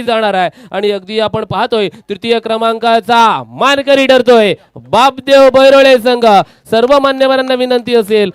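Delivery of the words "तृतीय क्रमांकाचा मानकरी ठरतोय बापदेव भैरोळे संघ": drawn-out build to the team name; winner announcement. Acted. Host revealing the third-place team to the crowd, drawn-out announcer style. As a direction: slowly proclaim the winning team.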